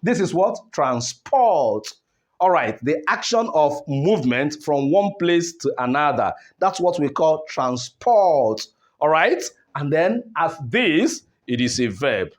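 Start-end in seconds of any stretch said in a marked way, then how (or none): 0.7-1.9 Transport with low TRANS, long falling PORT; stress on second syllable. Shown as a demonstration. Teacher showing the verb, second-syllable stress on Transport. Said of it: "shifted from the first syllable". 7.5-8.6 transport with light TRANS, long stressed PORT; stress on second syllable. Shown as a demonstration. Teacher naming the action, second-syllable stress on transport. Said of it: "shifted from the first syllable".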